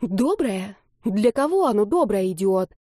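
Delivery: hissed anger, trying not to raise her voice; girl furious at the polite greeting, hissing; angry hiss. Acted. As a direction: spit the words back in a hushed fury. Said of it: "зашипела Марина".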